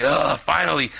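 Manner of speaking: annoyed. Retold or imitated. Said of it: "have attitude like".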